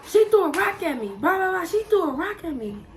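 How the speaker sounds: high, whiny imitation of a crying boy; mock crying kid. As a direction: whine it like a kid tattling through tears. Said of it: "My cousin come in crying".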